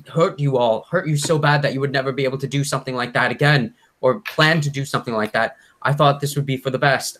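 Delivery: high, distraught pleading voice; acted tearful confession. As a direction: justify yourself desperately, voice climbing and staying high. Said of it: "he starts crying and he says".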